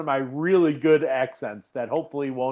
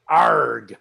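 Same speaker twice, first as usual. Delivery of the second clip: pirate growl; 4 semitones lower, 5 dB louder than usual. Acted. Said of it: "A pirate accent".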